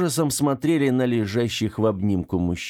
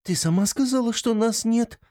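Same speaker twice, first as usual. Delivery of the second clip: high, frightened protest; shaking like a leaf as you answer; scared girl answers her angry friend, high and fearful; trembling with fear; 14 semitones higher than usual. Acted. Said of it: "дрожащая, как лист на ветру".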